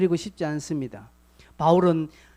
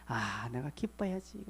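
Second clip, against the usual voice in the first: inner resolve; 7 semitones lower, 10 dB quieter than usual. Acted. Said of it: "inner resolve, acted".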